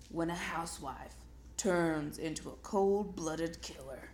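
low dramatic movie trailer narrator; movie announcer voice. Shown as a demonstration. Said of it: "a movie announcer voice".

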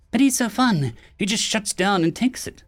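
high, teasing grin in the voice; smiling while teasing; playful smiling tease; said with a smile. A narrator's reading. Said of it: "said with a smile".

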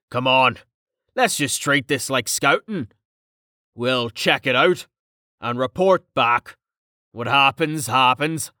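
hearty, matter-of-fact big man; rally a friend with casual assurance; lightly voiced blokey encouragement; easygoing comrade.

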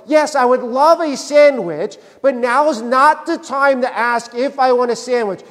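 mildly exasperated, emphatic retort; mock exasperation. Answering someone who offers a sandwich mid-conversation, mock exasperated. Acted retort to an untimely interruption.

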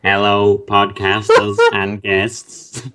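monotone robot reading a question. Pretend. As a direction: read it like a droning machine. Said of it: "Dude, robotic voice".

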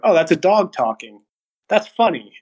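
mock childlike amusement, pitch lifted; a hint of a delighted little kid; easily amused young kid. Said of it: "you need to be, like, five to seven".

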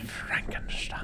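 dramatic whispered title; hushed spooky whisper. Pretend.

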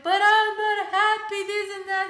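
high, loud tearful complaint; crying. Retold or imitated. Telling husband she's unhappy, high sobbing. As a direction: sob out the words. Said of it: "And I'm like".

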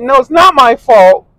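high, slow whiny denial; girlfriend's high, drawn-out denial; mocking girlfriend. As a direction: whine it out like her. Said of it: "And she's like".

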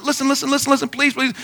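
acted helpless plea for a word; retold pleading interruption. Pastor trying to get a word in on the phone, pleading.

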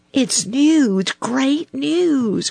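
excited cry. A narrator's reading. Little Joe Otter announcing great news, high excited cry. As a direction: cry it out high, bursting to tell. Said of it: "cried Little Joe".

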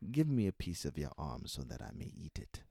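put-on African-accented creature demand; imitated creature, African accent. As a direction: play a hungry little man-eater. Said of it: "when I'm playing a character, you'll hear the accent".

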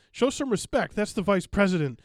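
a hint of retold scolding; mock scolding dad. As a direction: lightly play a father telling someone off. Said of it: "the dad said".

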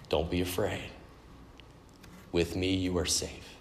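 soft, calm reassurance; reassuring king. Retold or imitated. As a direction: quote it gently, pausing between phrases. Quoting King David's reassurance.

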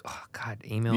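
breathy whispered groan, half-joking; mock weary groan. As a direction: sigh it out, dreading the inbox. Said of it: "I'm like".

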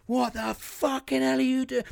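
angry yell. Retold or imitated. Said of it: "and I go".

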